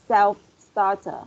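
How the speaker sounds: Self-starter said slowly and clearly; pronunciation drill. Shown as a demonstration. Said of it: "read out loud the word".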